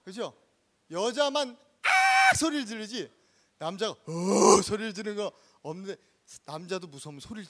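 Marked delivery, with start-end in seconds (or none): 1.8-2.3 high, loud film-style shriek; mock scream. Preacher showing how women scream in films, high mock shriek. 3.9-4.6 mock male scream. Preacher showing how men scream, loud mock fright.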